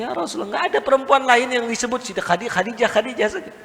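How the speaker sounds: quick, retold jealous protest. Jealous wife protesting to her husband, retold complaint. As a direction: protest in a hurried rush. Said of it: "Sampai dia protes sama Rasul".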